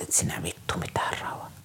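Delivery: whispered, contemptuous reply; hushed retort. Retold or imitated. Staff member answering the pinned-down child in a scornful whisper. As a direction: hiss the answer back low and cold.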